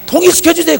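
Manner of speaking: pleading cry. Retold or imitated. Quoted prayer for reunification.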